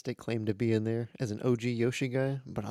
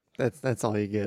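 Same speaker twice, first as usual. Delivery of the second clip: normal talking voice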